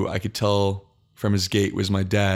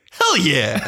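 louder, higher hyped cheer, falling away; hyped-up yell; 6 semitones higher, 4 dB louder than usual. Retold or imitated. Runner cheering on the psyched-up guy beside him, hyped yell. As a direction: cheer on a fellow runner, half laughing. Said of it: "then he's like".

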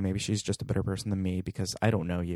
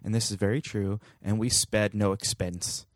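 lightly faked British Attenborough accent; Attenborough accent attempt. Host mimicking Attenborough for listeners, faintly British accent. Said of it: "I did it in Sir Richard Attenborough's accent".

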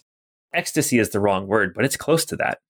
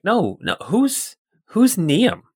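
high, rising, insistent; urgent pressing; 8 semitones higher, slower than usual. Acted. Scientist presses her staff about the name, insistent and high. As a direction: push harder for the answer.

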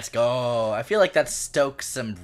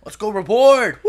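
excited cheer; 8 semitones higher, 11 dB louder than usual. Real, not acted. Cheering the reward.

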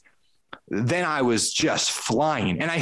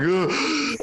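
exasperated ugh; 5 semitones higher than usual. Retold or imitated. Retold exasperation while struggling.

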